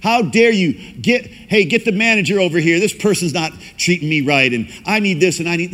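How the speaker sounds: high, loud mock outrage at the waitress; rude customer. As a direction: play a self-important diner snapping for the manager. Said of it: "and you're like".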